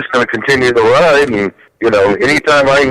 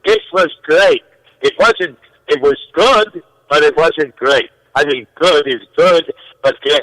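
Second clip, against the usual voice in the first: raised pitch, mock Jewish shtick; New York Jewish comic; 4 semitones higher, slower than usual. Guest thanking hosts in a Jewish comic's voice. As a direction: work the room like a New York comedian. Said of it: "if you were from New York, that would have killed".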